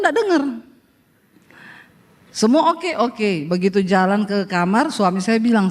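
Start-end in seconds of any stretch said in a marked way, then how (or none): none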